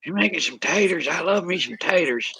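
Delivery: high, bright cartoon twang; silly high voice. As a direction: squeak it out like a goofy cartoon. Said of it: "crack my daughter up when I do that voice".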